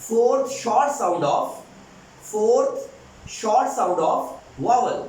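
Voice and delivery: drawn out, word by word; slow announcement. Shown as a demonstration. Teacher announces the fourth vowel sound, very slowly. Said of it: "teacher announces the sound slowly".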